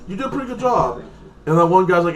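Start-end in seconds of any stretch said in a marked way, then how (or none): 0.1-1.0 reassuring. Retold or imitated. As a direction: comfort someone who feels they failed. Consoling the failed daughter.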